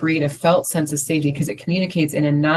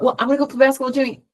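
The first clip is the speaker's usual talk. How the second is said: put-on happy kid; 9 semitones higher, much faster than usual. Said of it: "you'll see a kid just jump up".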